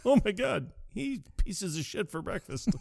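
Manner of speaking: real delighted squeal; giddy disbelief. Real, not acted. Cracking up at co-host's joke.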